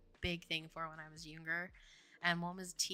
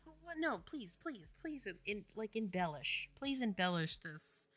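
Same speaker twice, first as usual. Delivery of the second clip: higher, stumbling plea; pleading disbelief; 3 semitones higher, 3 dB quieter than usual. Retold or imitated. Speaker retelling how she pressed Chris to explain, pleading disbelief. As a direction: beg for an explanation, repeating yourself.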